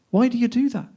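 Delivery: mild reproach, voiced high; mildly challenging. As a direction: ask it as a pointed complaint. Acted quarrel in poem.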